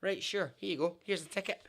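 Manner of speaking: high, loud sudden "oh" of realization; the penny drops for the clerk; shop clerk realizing. Retold or imitated. Clerk finally understands the Scottish customer, high and loud. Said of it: "the guy literally goes".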